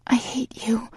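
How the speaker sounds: whispered, high and weak. A narrator's reading. Heroine weakly repeating the words to her lover, whispered. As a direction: parrot it back in a defeated whisper. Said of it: "I parrot weakly".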